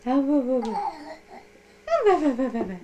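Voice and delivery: excited. Real, not acted. Reacting to baby.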